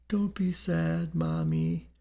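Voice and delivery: put-on high, slow little-boy ghost voice; frail, wavering child. A narrator's reading. Spirit boy comforting his mother, frail and wavering. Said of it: "the frail, wavering voice replied".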